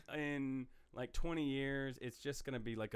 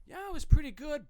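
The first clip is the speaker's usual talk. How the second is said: imitating a viewer; 13 semitones higher, 9 dB louder than usual.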